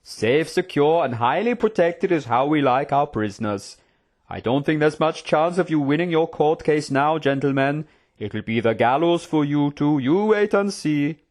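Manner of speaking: swaggering, leisurely jailer voice; gloating prison guard. Acted. Guard warning his two prisoners, gloating. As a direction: taunt them with smug relish.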